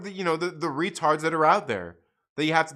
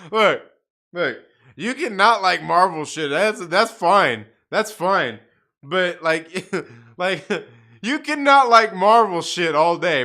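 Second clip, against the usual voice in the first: louder, insistent lecturing of a fan; loud rant; 7 dB louder than usual. Real, not acted. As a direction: hammer the point home loudly. Ranting at viewer about Marvel.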